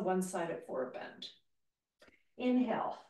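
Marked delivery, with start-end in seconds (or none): 2.4-3.0 whispered inhale cue. Shown as a demonstration. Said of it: "breath cue whispered".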